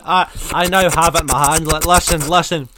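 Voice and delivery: talking around a lollipop; sucking a lollipop. Real, not acted. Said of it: "the sound of me sucking a lollipop".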